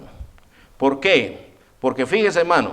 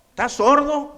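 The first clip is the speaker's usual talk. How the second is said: much higher, scornful jab; mocking king; 10 semitones higher than usual. King mocking the young men, high scornful question. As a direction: sneer at them as if they were deaf. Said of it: "eso ya se lo añadí yo".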